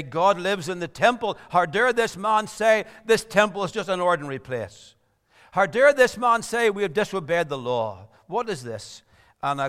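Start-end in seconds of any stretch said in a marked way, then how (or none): 0.0-8.1 louder, indignant voicing of the council; mock outrage. Sanhedrin members protesting Stephen's defense, louder and indignant. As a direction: throw out their outraged questions. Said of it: "made the members of the Sanhedrin furious".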